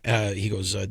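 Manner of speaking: ordinary talk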